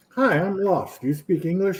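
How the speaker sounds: lightly voiced woman asking for help; a hint of a polite stranger; lost woman. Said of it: "a woman comes up and she's like".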